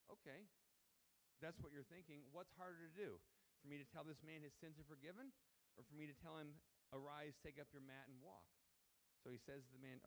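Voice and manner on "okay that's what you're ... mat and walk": challenging Jesus voice. Retold or imitated.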